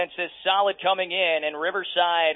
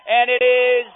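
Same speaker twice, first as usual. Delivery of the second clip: excited play-by-play; 5 semitones higher, 3 dB louder than usual. Acted. Play-by-play rising to a near interception.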